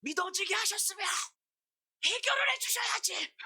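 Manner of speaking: very high, loud bratty demand; retold tantrum. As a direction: throw a screaming fit at God, re-enacted. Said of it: "뭐라고 땡깡을 부렸냐면".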